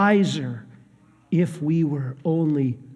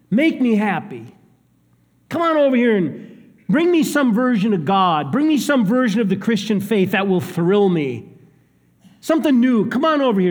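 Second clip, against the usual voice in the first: higher, louder, impatient mock demand; imitating demanding crowd; 5 semitones higher, 4 dB louder than usual. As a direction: play the spoiled seeker who wants thrills now. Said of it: "more of a demand than a sincere question".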